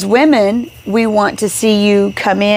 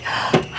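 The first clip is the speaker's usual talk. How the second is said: quiet, breathy intake of air; sleepy gasp; 9 dB quieter than usual. Acted. Wife acting out being put to sleep by his touch, sleepy gasp. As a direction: gasp softly as if dropping off. Acts out dozing off instantly.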